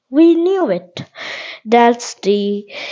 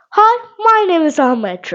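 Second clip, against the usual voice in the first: higher, livelier reply to the mirror; 5 semitones higher than usual. Shown as a demonstration. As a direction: answer your own reflection brightly. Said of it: "you need to backward and say".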